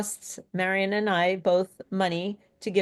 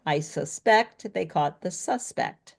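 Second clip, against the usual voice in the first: slowish, "suspect" stressed differently each time; stress demo. Shown as a demonstration. Teacher reminding learners of their favorite sentence. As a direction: verb "suspect" on second syllable, noun on first. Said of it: "your sentence that you love".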